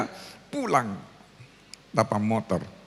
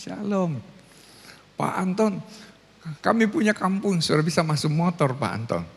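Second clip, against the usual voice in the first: imitating the pastor; 4 semitones higher than usual. Pastor reports motorbikes reach village.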